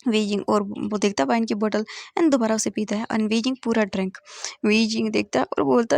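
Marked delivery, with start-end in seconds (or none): none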